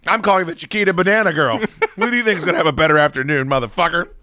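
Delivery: mock defiance. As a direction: fire back like a smug rich jerk. Mock confrontation with security.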